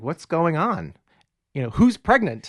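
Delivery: imitating someone barging in with questions; retold alarmed questioning. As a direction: act out a startled daughter lightly. Diana barges in demanding answers, retold.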